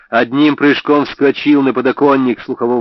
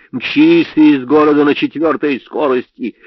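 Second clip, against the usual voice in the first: urgent; 6 semitones higher, 5 dB louder than usual. A narrator's reading. Urging him to flee.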